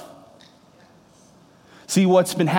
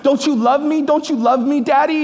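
put-on high, pleading little boy's wail, higher and louder; imitating crying son; 8 semitones higher, 3 dB louder than usual. Father imitating his son Parker begging through tears, high pleading wail. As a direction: beg like a sobbing four-year-old wanting love. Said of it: "he's bawling, crying, and he's screaming".

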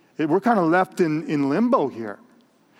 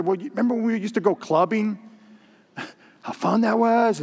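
nostalgic laugh; 4 semitones higher than usual. Retold or imitated. Mock reminiscing about clubbing.

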